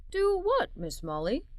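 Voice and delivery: drowsy reply; tired. Acted. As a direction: sound just woken, tired. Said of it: "still very tired".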